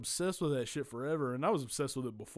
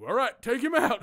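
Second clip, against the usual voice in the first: higher, louder, clipped command; imitating grandpa giving a cop order; mock cop order; 9 semitones higher, 9 dB louder than usual. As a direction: bark it like a cop. Grandpa quoted ordering takedown.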